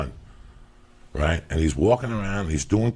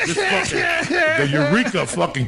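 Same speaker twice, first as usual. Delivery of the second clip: shouted rant; 4 semitones higher than usual. Real, not acted. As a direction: let it burst out. Rant replayed.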